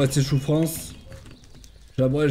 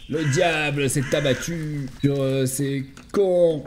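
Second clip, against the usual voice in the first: slow, drawn-out doom proclamation; hammed-up devilish pronouncement; mock villain; much slower than usual. Mock villain, then apologizes for cracking.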